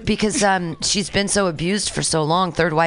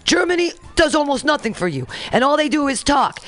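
hammed-up, higher-pitched president; reading as the president; 4 semitones higher than usual. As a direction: play a president boasting and complaining. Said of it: "You'll know when it says the president".

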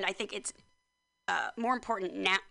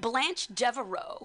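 Southern belle voice; 3 semitones higher, slower than usual. Shown as a demonstration. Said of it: "I'll still go Blanche Devereaux".

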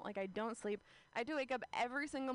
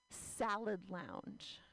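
slow deadpan; 2 semitones lower, much slower than usual. Acted. Deadpan sign reading.

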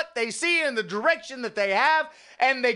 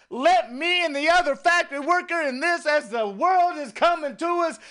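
prayer; 3 semitones higher than usual. Acted. Prays aloud to the Lord.

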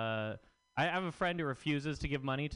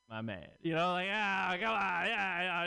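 bro-style approval; 6 semitones higher, 4 dB louder, slower than usual. Retold or imitated. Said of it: "I'd be like".

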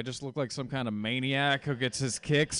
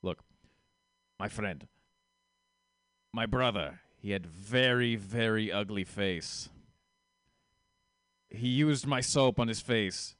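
put-on Russian accent. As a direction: make a halting pitch in a put-on Soviet accent. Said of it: "He talked like this".

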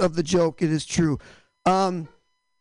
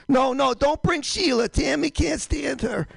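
put-on Boston accent; 4 semitones higher than usual. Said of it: "Bostonians back in, you know, the revolutionary times".

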